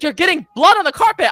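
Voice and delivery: very high, loud mocking mom voice; shrill scolding mom. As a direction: caricature the fussy mother. Mom scolding about carpet.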